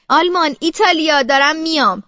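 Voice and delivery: a mild shout, acting out the brother; brother's outburst, lightly hammed-up; sudden shout. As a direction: call out abruptly, not at full volume.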